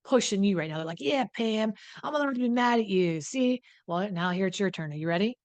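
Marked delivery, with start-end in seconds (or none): 1.0-3.6 higher, smug sing-song taunt; mock gloating partner. Sober partner taunting Pam about being allowed anger, mock smug. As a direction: lightly mimic a self-righteous spouse rubbing it in.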